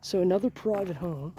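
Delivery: talking through a face mask; muffled by mask. Real, not acted. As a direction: speak muffled behind a mask. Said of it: "I gotta take this mask off a minute".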